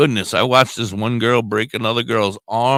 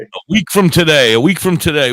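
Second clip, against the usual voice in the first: excited announcement; 8 semitones higher, 7 dB louder than usual. Acted. Announcing the date.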